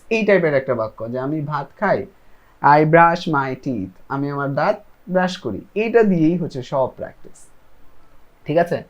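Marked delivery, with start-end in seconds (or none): 2.6-3.9 each word slow and separate; slow model sentence. Shown as a demonstration. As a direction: spell it out slowly for learners. Teacher models English sentence.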